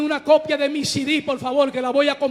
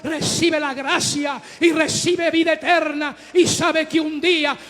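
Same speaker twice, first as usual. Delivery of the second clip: fiery preaching; 4 dB louder than usual. Acted. Pastor to congregation about forgiveness, fiery loud preaching. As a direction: preach it out full force to the church.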